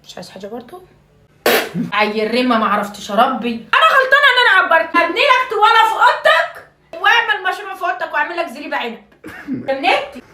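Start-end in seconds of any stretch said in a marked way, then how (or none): 3.5-9.0 high, hammed-up wailing complaint; mock-tragic mother's wail; wailing lament. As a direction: wail out the regrets. Mother wails again in grievance.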